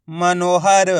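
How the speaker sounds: मनोहर in even, separated syllables; sounded-out word. Shown as a demonstration. Teacher joining the letters, मनोहर sounded out. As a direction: blend मनोहर carefully, stretching the vowels. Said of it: "एक ही अक्षर का उच्चारण करके".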